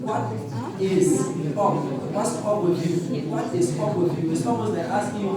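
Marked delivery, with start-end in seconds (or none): 0.0-4.3 "What is up with you" spelled out slowly; slow standard-English gloss; slow full form. Shown as a demonstration. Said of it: "Which is".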